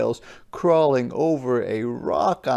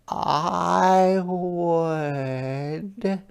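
higher, eager little snail; 6 semitones higher than usual. Acted. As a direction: offer it up like a small snail. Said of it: "offered one of the snails".

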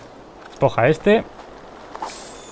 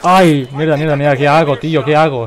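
flustered, louder panicked swearing; panicked cursing; 4 dB louder than usual. Real, not acted. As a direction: panic as the guards spot you. Panicking when spotted in game.

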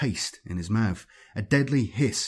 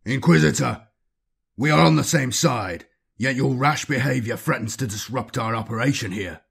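stern rebuke; 2 semitones higher than usual. Acted. Captain rebuking the inquisitor's rash behavior, stern. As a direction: put the inquisitor in his place.

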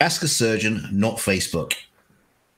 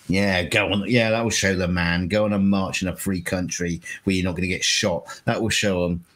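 sarcastic. Real, not acted. Sarcastic reply to message.

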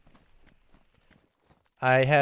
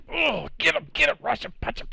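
excited urging; 10 semitones higher than usual. Real, not acted. Urging on fight.

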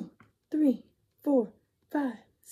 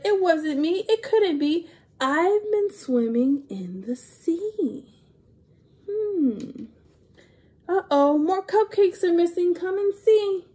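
higher, louder excited call; mock alarm; 6 semitones higher, 5 dB louder than usual. Reader calling children to see more missing cupcakes. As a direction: call everyone over. Turtle denies, then alarm.

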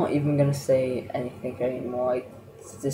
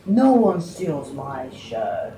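mock dramatic boast; 4 dB louder, much slower than usual. Real, not acted.

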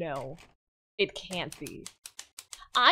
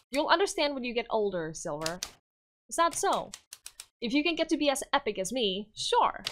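put-on smug boy king. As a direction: talk down to an adult.

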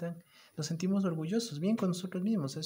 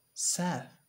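mock sad; 4 semitones higher than usual. Shown as a demonstration. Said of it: "Vamos al otro".

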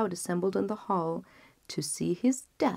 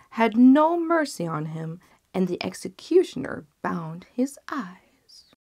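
lightly raised, pointed telling; fisherman; 6 dB louder than usual. Acted. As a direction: drive the moral home to the genie. Fisherman continues tale.

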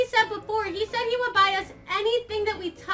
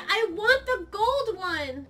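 slow, drawn-out bratty demand; much slower than usual. Pretend. Player demanding the gold one from Fishy, put-on bratty. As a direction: drag it out like a mildly spoiled brat. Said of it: "start being a brat".

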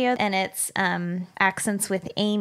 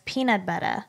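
Aussie accent. Shown as a demonstration. Reading a listener's tip, Australian peanut butter. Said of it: "An Aussie will generally pronounce this as".

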